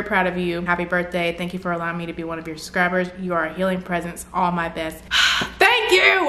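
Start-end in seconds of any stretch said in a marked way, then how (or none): 5.6-6.3 very high, louder burst of thanks; high emotional thanks. Real, not acted. YouTuber overcome by a fan's letter, high louder thanks. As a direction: burst out in gratitude. Moved after sigh.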